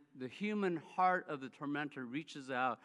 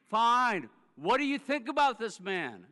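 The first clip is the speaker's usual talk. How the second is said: louder, higher reluctant huff; grudging give-in; 4 semitones higher, 7 dB louder than usual. Retold or imitated. Dan finally relents to God, grudging huff.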